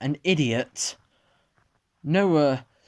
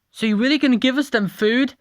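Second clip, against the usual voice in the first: eager question; 9 semitones higher, 5 dB louder, faster than usual. Acted. Julie voiced asking chef.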